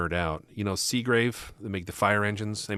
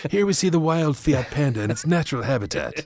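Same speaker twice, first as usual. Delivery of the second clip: hushed Attenborough-style wildlife narration; nature documentary; 6 semitones higher, 5 dB louder than usual. Pretend. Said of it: "Here we see David Attenborough".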